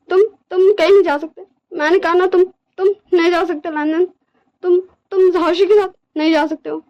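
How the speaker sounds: cling and refuse to let go; desperate, pleading Wing. Acted. Wing holds Lanjan back from leaving, desperately pleading.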